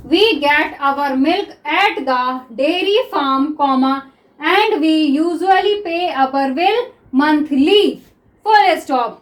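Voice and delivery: very slow, word-by-word dictation pace. Acted. Teacher dictating to shorthand students, very slow and deliberate. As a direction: dictate it slowly so students can write.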